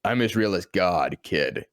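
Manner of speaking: low, gruff Batman growl. Retold or imitated. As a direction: drop deep like the Dark Knight. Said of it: "he's just like".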